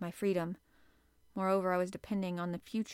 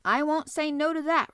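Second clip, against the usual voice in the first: higher and louder, hearty and keen; eager acceptance; 8 semitones higher, 9 dB louder than usual. A narrator's reading. Harpooner accepting the captain's meal, hearty eager reply. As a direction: grab the offer with relish.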